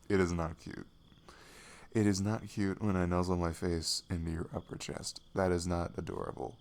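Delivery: mock-indignant denial, firmly stressed; playful protest. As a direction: protest being called cute, a touch put out. Playful protest at being called cute.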